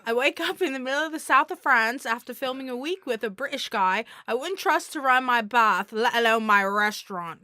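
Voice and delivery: put-on lightly done British accent. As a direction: read it in a gentle British accent. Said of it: "Will Gates said my British accent is good".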